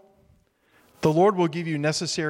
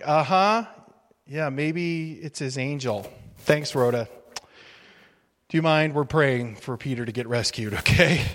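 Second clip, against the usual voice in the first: dismissive sarcasm. Retold or imitated. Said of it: "Some are like".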